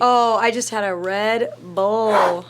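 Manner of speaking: slow drawn-out British imitation; British accent. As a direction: mimic his British accent, slowly. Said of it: "in his adorable accent".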